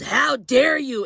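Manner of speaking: high, drawn-out mock outrage; indignant outburst. Attendant lunges at passenger who complained, indignant outburst. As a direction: imitate someone outraged, pitch jumping up.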